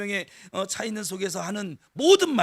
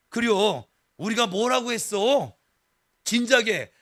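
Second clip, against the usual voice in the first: Chungcheong dialect; 3 semitones higher, 6 dB louder than usual. Retold or imitated. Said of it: "충청도 출신들이세요".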